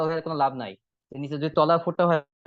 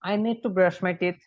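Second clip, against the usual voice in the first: "I need to brush my teeth" said slowly, word by word; slow model reading; 3 semitones higher, much slower than usual. Shown as a demonstration. Teacher shows the brushing sentence, slow and clear. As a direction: read the line slowly for the class. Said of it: "আমি দেখে দিচ্ছি line".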